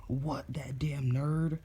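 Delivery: hissed in disbelief; angry whisper. Acted. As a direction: whisper it with jealous anger. Bakugo angry at Deku's win.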